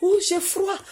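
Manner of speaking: high, loud ecstatic cries; joyful shout. Retold or imitated. Colleague shouting on the phone at the news, ecstatic. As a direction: shriek with amazed joy. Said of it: "Elle a crié".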